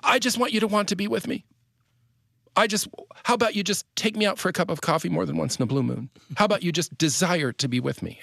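high, insistent mock-wife plea; imitating pleading wife. Husband acting out his wife asking to be wanted, high pleading.

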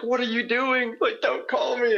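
high exasperated cry, imitating himself; alarmed disbelief. Caller reacting to the girl who keeps calling him, high and alarmed. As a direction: throw up your hands in high-pitched alarm.

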